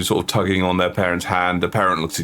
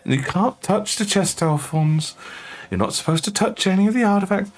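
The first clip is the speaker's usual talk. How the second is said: exasperated parent; 11 semitones higher than usual. Acted.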